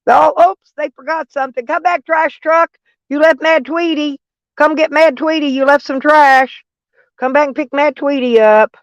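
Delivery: high, mocking call after the departing trash truck.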